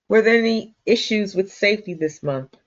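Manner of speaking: normal talking voice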